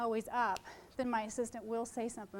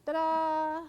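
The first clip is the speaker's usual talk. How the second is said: ta-da; 5 semitones higher, 6 dB louder than usual. Acted. Unveiling a photo to the audience.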